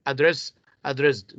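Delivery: "Address, addressed" both said alike, stressed on DRESS; same stress on both. Shown as a demonstration. Teacher showing no difference, same stress on "Address, addressed". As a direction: give "Address" and "addressed" identical second-syllable stress. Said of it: "here they are pronounced the same".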